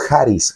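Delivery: "charis" with stress on the A; Greek pronunciation. Shown as a demonstration. Preacher teaching the Greek word charis with stress on A. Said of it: "con tilde en la A".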